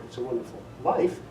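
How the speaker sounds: "life" carries the weight, rising on it; stress on LIFE. Shown as a demonstration. Narrator demonstrating inflection to audience, weight on life. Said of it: "three different inflections there".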